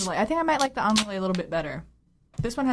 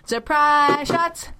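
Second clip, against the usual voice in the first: announcer hype; 6 semitones higher, 4 dB louder, much slower than usual. Acted. Hyping the surprise shot segment.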